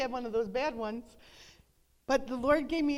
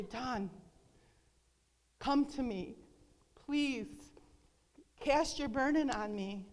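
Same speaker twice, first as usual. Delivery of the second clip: gentle calling. Retold or imitated. The Lord inviting her to lay down her burden, gentle. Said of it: "I always hear the Lord call me".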